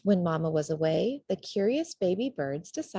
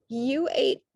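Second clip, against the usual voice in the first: shocked disbelief; 7 semitones higher, 5 dB louder, slower than usual. A narrator's reading. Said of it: "stuttered one".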